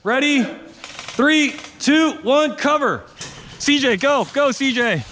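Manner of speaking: high called countdown; cover me shout. Real, not acted. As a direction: call the countdown to the team.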